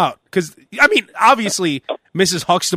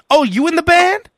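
higher put-on voice of the checkin woman; imitating clerk; 10 semitones higher than usual. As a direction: play her as an awestruck fan.

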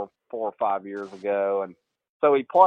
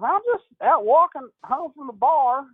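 lightly voiced breezy answer, pitched higher; carefree Baldo; 13 semitones higher, 4 dB louder than usual. Player calling from the bar, breezy mock voice. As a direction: shrug it off like nothing's wrong. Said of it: "he goes".

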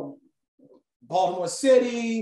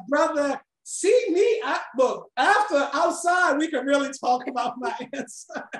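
high, louder mock tough-guy call-out; mock challenge; 8 semitones higher, 3 dB louder than usual. Speaker to a heckler, a playful mock threat. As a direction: pretend to invite him outside, half joking. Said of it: "what I wanted to say was".

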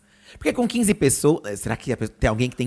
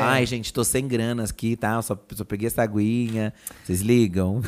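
soft, apologetic asking, voice dropping lower and softer; polite tone; 6 semitones lower, 4 dB quieter than usual. Shown as a demonstration. Host shows friends the gentle way to say she'll only pay for water, softly. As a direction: ask nicely, almost sheepish. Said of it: "isso aqui seria mais sobre entonação".

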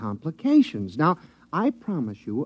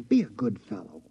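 coaxing whisper; 4 semitones lower than usual. Acted. George coaxing guard.

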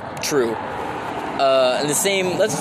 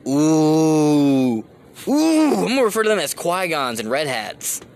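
excited; 4 dB louder, slower than usual. Real, not acted. Sudden idea.

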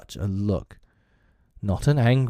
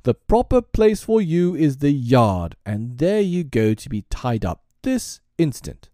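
loud, high, slow commanding rant; blustering master of the house; crying out; 7 semitones higher, 5 dB louder than usual. A narrator's reading. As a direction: order it with pompous force. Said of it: "he cried".

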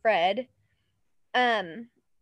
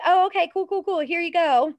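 high, eager careless clerk; mock-breezy official handing over kids; airheaded clerk voice; 7 semitones higher, 5 dB louder than usual. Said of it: "they're like".

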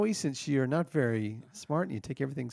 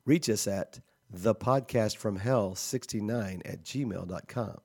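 measured podcast sign-off read; announcer outro read; 2 semitones lower than usual. Real, not acted. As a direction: read the credits like a public radio announcer. Reads the show's outro.

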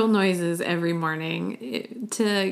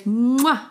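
a louder smacking mwah; kiss mwah; 4 semitones higher, 4 dB louder than usual. Shown as a demonstration. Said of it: "give me a kiss".

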